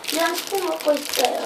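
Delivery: talking while eating soup; words round a mouthful of soup; chewing sounds. Real, not acted. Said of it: "쩝쩝소리 양해 부탁드려요".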